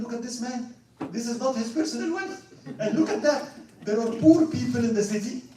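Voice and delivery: high, loud, scornful laughing retelling; disgusted laughing. Retold or imitated. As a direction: laugh in disbelief at the greedy patriarch. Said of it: "He was so disgusted of this person".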